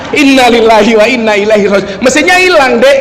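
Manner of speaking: imitating a loud, dismayed cry that rises; mock yell. Madurese friend wails to his companion about the missing engine, mock yell. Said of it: "Langsung dia teriak".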